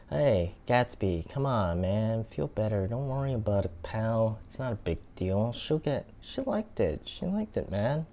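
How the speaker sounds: high-pitched Boston best buddy; Boston accent. Pretend. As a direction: cheer up a pal in Boston accent. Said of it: "my Boston best friend character".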